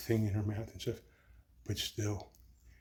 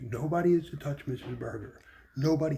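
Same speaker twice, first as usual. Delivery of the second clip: louder, rising command, the last word hit hardest; firm command; 4 semitones higher, 5 dB louder than usual. Retold or imitated. Doctor orders staff away from Missus Berger, loud and firm. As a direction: lay down the law for the whole room. Doctor declares patient protected.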